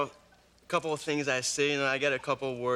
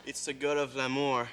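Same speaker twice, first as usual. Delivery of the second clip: a touch of French lilt on l'amour; French accent, mild. Shown as a demonstration. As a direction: say it the French way, lightly. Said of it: "your voice and your vocal charm".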